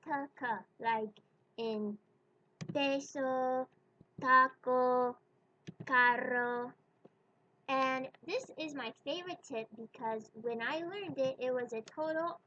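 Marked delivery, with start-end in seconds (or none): 2.7-6.7 peso, taco, carro said with crisp unaspirated p, t, k; Spanish p t k. Shown as a demonstration. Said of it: "how to pronounce the sounds p, t, k".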